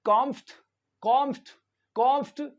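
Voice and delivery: कॉम्फ्ट as one beat, "KOMFT"; कॉम्फ्ट said alone, rising slightly; first syllable demo. Shown as a demonstration. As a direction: run M, F and T together in कॉम्फ्ट. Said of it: "इसका sound निकलेगा इस तरह से".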